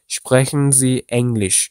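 don't lean on the R in Sprechen; unstressed R. Shown as a demonstration. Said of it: "R harfini vurgulamamaya çalışıyoruz".

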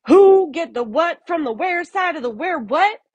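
high, lightly mocking parrot of the question; mocking varmint repeat. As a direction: throw the muddled question back at him. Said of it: "The scruffy varmint repeated".

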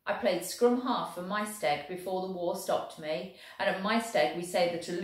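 lightly voiced Welsh soldier, proud and lively; a hint of a cheerful Welsh infantryman. Welshman boasting of rugby to the German, lightly voiced.

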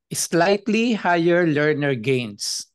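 slightly drawn out slowly; stress on slightly. Real, not acted. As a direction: lean slowly on the word slightly. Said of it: "emphasis on slightly".

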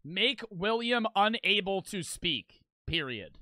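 slow, deliberate dictation; writing it out. Pretend. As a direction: dictate the wish slowly into a book. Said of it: "I would write in the book".

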